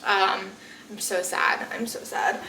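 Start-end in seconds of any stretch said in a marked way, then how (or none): 1.7-2.4 whispered sadly to herself. Real, not acted. Vlogger whispering to viewers about her dead truck, sad whisper.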